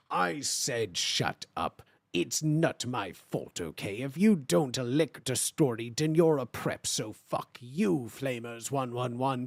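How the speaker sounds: put-on low, slow, sulky teen author; dramatic fanfic reading, low and slow; angsty author's note reading. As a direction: read it like a moody goth kid.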